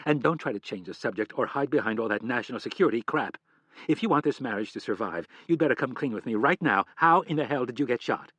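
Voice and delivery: demanding. Acted. Wife demanding the truth.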